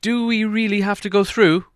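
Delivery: a reluctant little hobbit moaning; hobbit's groan. A narrator's reading. Hobbit complaining to the wizard, groaning and high. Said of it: "groaned the hobbit".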